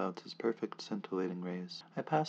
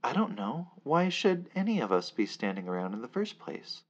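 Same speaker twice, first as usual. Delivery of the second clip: raised questioning; 4 semitones higher, 6 dB louder than usual. Acted. Narrator questions the crowd.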